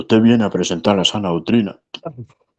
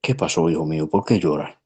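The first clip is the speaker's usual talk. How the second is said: sweet voice; 3 semitones lower than usual. Retold or imitated. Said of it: "con voz dulce le dijo".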